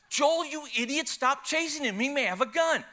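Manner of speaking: wife's high-pitched scolding yell; mock-yell a frantic warning at your husband; imitated yelling. Wife yelling at the husband chasing a thief, high imitated yell. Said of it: "she's yelling at me".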